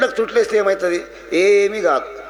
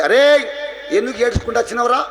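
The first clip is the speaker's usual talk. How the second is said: raised, higher scolding call; lightly voiced fig tree; 4 semitones higher than usual. Fig tree addressing someone who came crying, lightly acted scolding. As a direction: call out as a tree chiding a person. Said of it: "రాగి చెట్టు ఎక్కడ నాటినా మొలుస్తుంది అది ఏంటది".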